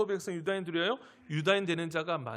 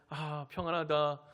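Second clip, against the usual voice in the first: acted peacefulness; 4 semitones lower, slower than usual. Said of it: "병원에 입원해도 그 가운데".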